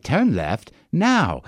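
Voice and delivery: slow, flat English satnav lady; English woman GPS voice. Retold or imitated. Imitating the car GPS voice to the listeners, slow and prim. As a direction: read it like a prim English navigation voice. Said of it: "set on the English woman voice".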